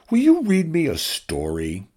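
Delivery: small high voice, pleading; high drone voice. Acted. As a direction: ask like a hopeful little robot. Drone asks for a story.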